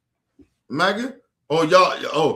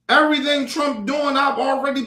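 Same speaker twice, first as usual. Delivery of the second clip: angry shout; 6 semitones higher than usual. Real, not acted. Shouting at shocked voters, angry outburst. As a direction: blast it out in frustration.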